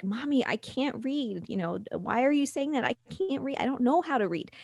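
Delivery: a mild mock tearful plea; imitating crying child. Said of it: "And she starts crying".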